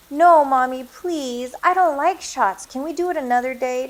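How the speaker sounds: put-on high whiny child; pleading little boy. A narrator's reading. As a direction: beg like a scared kid. Child begs to skip shots.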